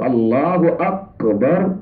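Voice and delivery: "اکبر" stretched out with q in place of k; slow demo of "Allah اکبر" as Allahu aqbar; mispronounced big qaf. Shown as a demonstration. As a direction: make the ک in "اکبر" a heavy back-of-throat ق. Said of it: "یہ بڑا قاف ہے".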